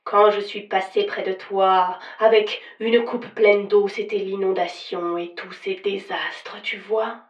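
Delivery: lugubrious, solemn ghost voice; vintage horror narrator. Acted. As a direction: pronounce doom like a spectre. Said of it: "d'une voix lugubre et solennelle".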